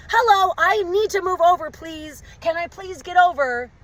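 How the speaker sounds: high-pitched pleading blinker voice; hammed-up polite plea; polite request. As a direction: ask sweetly up high to be let in. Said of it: "your blinker as a polite qu-, request".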